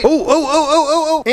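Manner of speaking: high excited yelps. Real, not acted. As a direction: greet the dog with delight. Dog wants attention.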